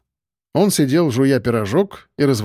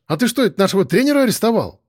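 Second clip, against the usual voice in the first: put-on higher, fast eager boy's voice; excited kid; 7 semitones higher, faster than usual. A narrator's reading. Young boy rushing up to the policeman, eager and quick. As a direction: blurt it out like a curious kid.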